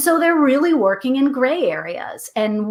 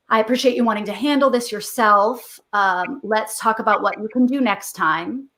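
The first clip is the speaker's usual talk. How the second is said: gentle parent; 2 semitones lower than usual. Shown as a demonstration. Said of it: "if you're feeling gentle".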